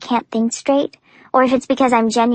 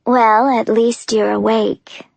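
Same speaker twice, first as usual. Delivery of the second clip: sighing; slower than usual. Acted. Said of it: "he sighs".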